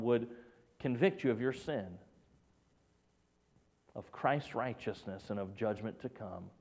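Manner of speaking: low, soft, prayerful plea; gentle appeal. Real, not acted. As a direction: bring it down to a quiet, earnest invitation. Closing prayerful appeal to listeners.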